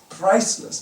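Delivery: "priceless" called out loud with a rising tune. Shown as a demonstration. Preacher proclaiming a believer's worth, loud "priceless". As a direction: ring out "priceless" to the hall.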